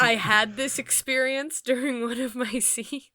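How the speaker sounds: breathy giggling whisper, laughing mid-sentence; can't hold back the giggles while telling it; laughing through words. Real, not acted. Laughing while recalling scene.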